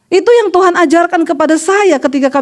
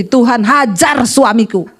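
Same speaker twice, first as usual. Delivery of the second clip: HAJAR hit hard and drawn out; slow, punched HAJAR in a modelled prayer; emphatic prayer; 3 semitones lower, slower than usual. Shown as a demonstration. Preacher teaches a wife her new prayer, emphatic.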